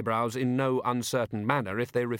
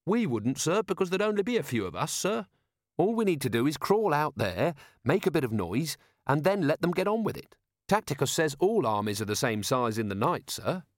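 eager, respectful subordinate, pitched higher; keen Carrot; 5 semitones higher than usual. Acted. Carrot telling Vimes about the book, eager and respectful. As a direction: report keenly to a superior. Carrot explains his plan.

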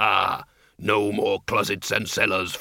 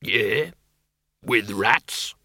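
exploratory; much slower than usual. A narrator's reading. Bogey asking after rats, exploratory. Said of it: "in an exploratory tone of voice".

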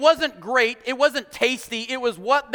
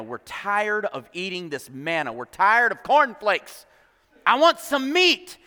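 grumbling complaint. Acted. Israelites grumble to Moses about eating manna, building complaint. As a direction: complain wearily, then demand it. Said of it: "They grumbled about the manna".

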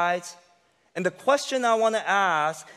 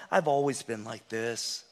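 defeated voice; 3 semitones lower than usual. Acted. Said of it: "it'll sound always like this".

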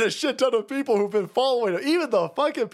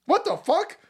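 mock disbelief; 5 semitones higher than usual. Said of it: "He's gonna be like".

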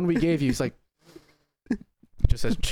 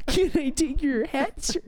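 higher, slow fancy waiter; posh bartender voice; 11 semitones higher than usual. Pretend. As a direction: play the stuffy butler, slowly.

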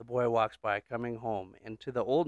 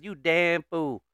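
put-on Southern accent. Old man scolding the boy, Southern accent. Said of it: "why are they Southern?".

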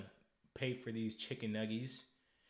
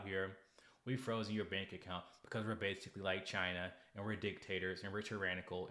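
low, soft mock bank agent voice; lightly voiced mock apology, softer; mock bank rep; 3 semitones lower, 3 dB quieter than usual. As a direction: play a smug apologetic banker. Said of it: "And I'm like".

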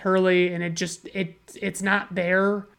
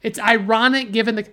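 mocking repetition; 3 semitones higher, faster than usual. Reviewer parroting a pointless trivia post, mocking. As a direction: throw their words back in scorn.

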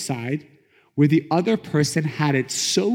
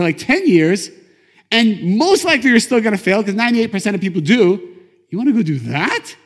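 raised, emphatic disbelief; incredulous challenge; 4 semitones higher, 5 dB louder than usual. Acted. Challenger questioning a man's choice to start a company, incredulous. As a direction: press each point as if it's absurd.

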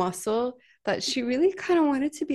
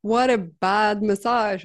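imagined disgruntled client. Retold or imitated. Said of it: "laying there like".

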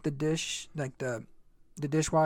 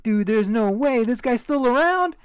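loud, high, slowed laughing disbelief; 7 semitones higher, 7 dB louder than usual. Retold or imitated. In the cold shower sensing dad, laughing amazed. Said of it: "I was like".

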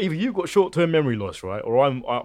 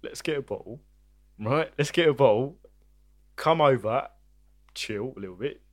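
calm and reasonable. Retold or imitated. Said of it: "what I said was".

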